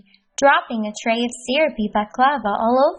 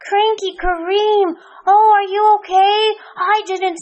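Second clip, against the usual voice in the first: high, alarmed apology; worried Healthy Hassan; 10 semitones higher, 5 dB louder than usual. Acted. Hassan checking on Kareem, high worried voice. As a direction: rush in concerned.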